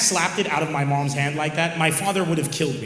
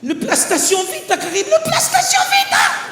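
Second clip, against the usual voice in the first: high, loud mock shriek; hammed-up desperate mother; shrieking mom; 4 dB louder than usual. Mom shrieking the last toy's name at her son. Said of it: "and she goes".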